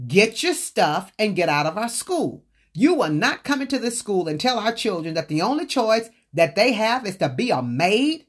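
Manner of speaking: mild retold fury; furious scolding. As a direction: tear into her in anger. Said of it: "Mister Purify was furious".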